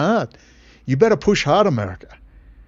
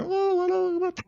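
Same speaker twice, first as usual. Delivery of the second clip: mock surprise; 7 dB quieter than usual.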